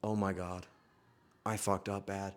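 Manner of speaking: low, soft, worried mutter; whisper-quiet panic to himself; driver's dread. Retold or imitated. Uber driver muttering to himself in dread. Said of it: "this guy is like".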